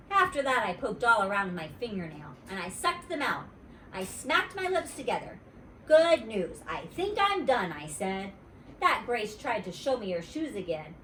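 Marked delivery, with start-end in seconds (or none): 5.9-7.7 put-on little girl voice. Junie B voice.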